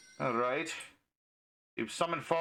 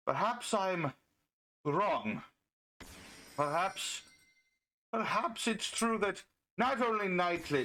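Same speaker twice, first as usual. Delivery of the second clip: mock-thoughtful musing with weighty pauses; sarcastic; slower than usual. Feigning doubt about ladies deserving a chance, sarcastic. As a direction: pretend to concede it, drawing out the pauses. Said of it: "Of course, that's sarcasm".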